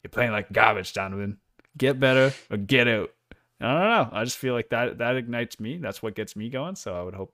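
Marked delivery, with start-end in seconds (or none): 0.0-3.1 tough coach. Pretend. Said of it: "but that'd be like".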